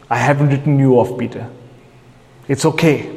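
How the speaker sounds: low, tender reassurance; gentle reassurance. Retold or imitated. Jesus to Peter after his failure, gentle reassurance.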